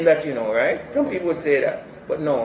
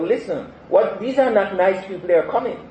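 voice of God; 5 semitones higher, 5 dB louder than usual. Acted. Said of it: "what he's telling Habakkuk".

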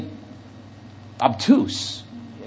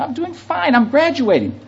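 put-on higher, light girlish voice for her quick yeahs; imitating the young girl; 9 semitones higher than usual. Preacher quoting the girl in the elevator, high girlish voice. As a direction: play the college girl chirping back.

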